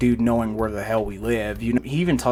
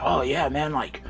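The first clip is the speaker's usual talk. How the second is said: mock hyped-up brag, pitched higher; goofy bragging friend; 3 semitones higher than usual. Boxer friend gloats at the drunk guy, mock goofy brag. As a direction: imitate a cocky friend gloating. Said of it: "On some goofy ass rah-rah shit".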